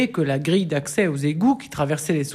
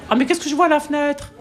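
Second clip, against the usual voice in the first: higher, fast, wide-eyed amazement; amazed; 8 semitones higher than usual. A narrator's reading. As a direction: gasp at what you see through the window. Surprise devant une truite. (émerveillé, plus aigu et rapide)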